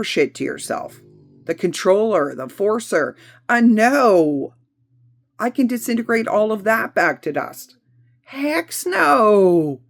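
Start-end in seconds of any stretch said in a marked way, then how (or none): 3.5-4.5 loud refusal. Shown as a demonstration. Refusing the toxic voices. 8.2-9.8 high defiant no. Shown as a demonstration. Refusing the toxic voices.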